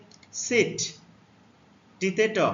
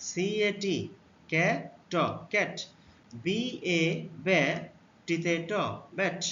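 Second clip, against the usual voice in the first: slow spelling out; slower than usual. Shown as a demonstration. Teacher spelling সিএটি out slowly for children. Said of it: "এখানে এর উচ্চারণ কি হলো".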